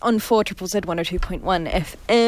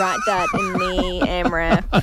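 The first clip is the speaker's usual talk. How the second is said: laughing; slower than usual. Real, not acted. Laughing at a spelling mistake.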